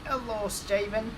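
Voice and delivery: lightly put-on Finnish accent in broken English; a hint of Finnish accent, broken English. Impersonating a Finnish viewer greeting Steven, Finnish accent. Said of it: "Another guy's name is Jarmo".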